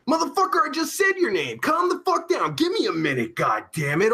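high-pitched, impatient telling-off; exasperated scolding. Real, not acted. Streamer scolding a pushy viewer, exasperated.

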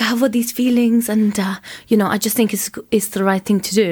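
playfully put-on foreign accent; retold confession in a foreign accent; imitated non-English accent. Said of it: "I love doing accents".

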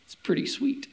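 a hint of a smug Pharisee. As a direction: gloat lightly to God. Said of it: "He's like".

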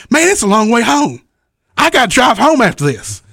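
high, fast anxious whine; worried A J. Retold or imitated. Wrestler imitating the next act panicking about following them. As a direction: rattle it off in a panic. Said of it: "He's like".

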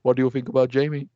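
lightly imitating the co-host's wife; slightly put-on mimicked voice; wife impression. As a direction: repeat it as a mild impression of her. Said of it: "That's what she sounds like".

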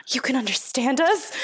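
gasping, half-laughing disbelief; gasp, then ask through a laugh; shocked gasp. Retold or imitated. Little church girls caught gossiping, gasping in shock. Girls realize she understands.

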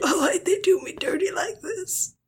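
high-pitched, tearful mock lament; mock wail. Friend echoing the nugget lament, mock wailing. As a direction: echo it as a hammed-up cry of betrayal.

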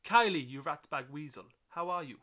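loud Scottish manager greeting; jovial Scottish boss insulting fondly. Acted. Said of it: "mine came out very Scottish".

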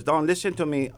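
bad impression, lightly put-on accent; a hint of someone else's voice; Saad. Fellow comic warning Don before his set, lightly impersonated. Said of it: "that's my really bad Saad impression".

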